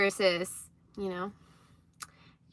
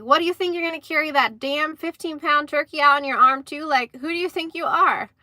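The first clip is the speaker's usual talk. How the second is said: higher, mock indignant scolding; retold angry husband; 6 semitones higher, 4 dB louder than usual. Husband to wife about carrying the turkey, imitated indignant anger. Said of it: "flipped a lid".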